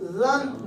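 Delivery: "زن" with a light, fine consonant; light tajweed articulation of "زن"; thin light letter. Shown as a demonstration. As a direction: keep the first sound of "زن" thin. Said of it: "یہیں سے باریک آواز".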